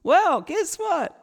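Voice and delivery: loud, high mock-Australian parents; imitated Australian parent, gleefully loud and high-pitched; Australian accent. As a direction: crow the big news in an exaggerated Australian accent. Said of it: "my parents ring from Australia".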